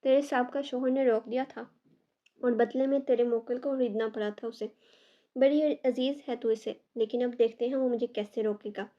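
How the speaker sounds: loud, menacing gloat; gloating threat. Acted. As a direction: rub it in with menace.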